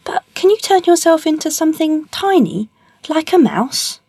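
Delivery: very high, teasing question; goading cat. Acted. Puss challenging the ogre to turn tiny, goading. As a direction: pitch it right up, daring him.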